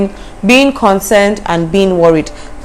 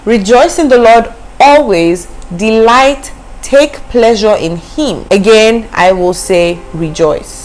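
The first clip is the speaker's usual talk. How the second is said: scripture reading; 3 semitones higher, slower than usual. Shown as a demonstration. Preacher reading the Amplified Version, lifted. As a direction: proclaim it, then slow down on the last line. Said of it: "But the Amplified Version says".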